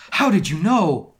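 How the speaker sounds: surprised. Acted. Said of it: "I asked in a surprised way".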